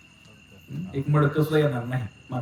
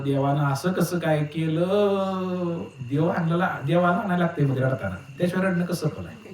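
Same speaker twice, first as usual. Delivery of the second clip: put-on old mother lamenting. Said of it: "सगळे रडायला लागले".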